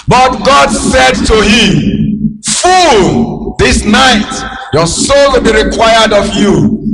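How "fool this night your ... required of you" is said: God rebuking. Acted. Preacher voices God rebuking man.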